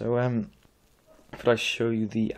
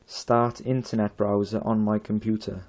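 loud voice command; 5 dB louder than usual. Real, not acted. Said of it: "I'll have one more try".

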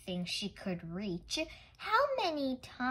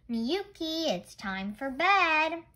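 calling out; 7 semitones higher, 8 dB louder than usual. Acted. Grandfather calls child to bed.

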